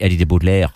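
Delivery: "Boutelaire" with a French-like ending; French-sounding name. Shown as a demonstration. Explaining the Norman surname, French-sounding "Boutelaire". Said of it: "in, in Irish, that would be".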